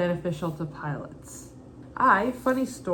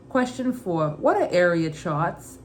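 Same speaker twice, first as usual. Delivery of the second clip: put-on Brooklyn accent. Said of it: "Every question I'll read in my mother's Brooklyn accent".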